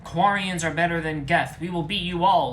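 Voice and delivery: high, loud screaming taunt in a put-on voice; furious scream. A narrator's reading. Tally screams at Legion in a fight, loud and high. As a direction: scream it at the enemy. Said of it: "screamed Tally".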